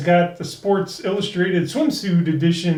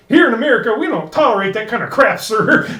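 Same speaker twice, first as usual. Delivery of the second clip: stern Marine; 5 semitones higher, 5 dB louder, faster than usual. Retold or imitated. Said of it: "the Marine punches him ... and says".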